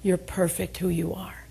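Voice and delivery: soft whispered reassurance. Retold or imitated. Mother comforting her daughter, whispered reassurance. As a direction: whisper it tenderly. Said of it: "she looked at me and she said".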